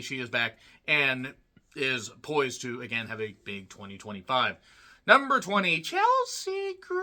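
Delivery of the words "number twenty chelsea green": high, loud announcer call stretching the name; hyped announcement. Acted. Host revealing number twenty on his list, hyped announcement. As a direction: belt out the name high and drawn out.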